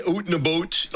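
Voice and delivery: mock Canadian "out and about"; Canadian accent. Shown as a demonstration. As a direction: exaggerate the Canadian vowels in "out and about". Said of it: "You've, you've gotta talk like that".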